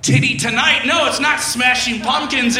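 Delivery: very high, held-out mock shriek; over-the-top high-pitched delight; hammed-up high voice. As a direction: push it way up into a silly squeal. Acted hammed-up outburst over the kiss.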